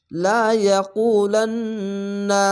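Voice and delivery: slow chanted recitation, nasal hold on না; Quran recitation. Shown as a demonstration. Teacher reciting the verse again after spelling, slow and chanted. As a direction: stretch the verse slowly like tajweed. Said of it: "এখানে ওয়াজিব গুন্না".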